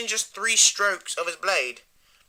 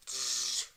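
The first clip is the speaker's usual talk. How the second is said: soft imitated lightning zap; zapping noise; 5 semitones lower, 7 dB quieter than usual. Acting out when he goes crazy, soft zap noise. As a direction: buzz softly like a lightning bolt.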